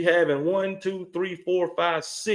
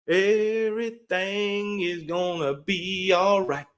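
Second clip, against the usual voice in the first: soothing reassurance; slower than usual. Acted. Reassuring rival team's fans.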